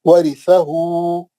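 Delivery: slow, drawn-out Quranic recitation. Shown as a demonstration. Teacher recites word slowly for class. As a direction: chant each syllable slowly for students. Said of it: "जबर जेर पेश है".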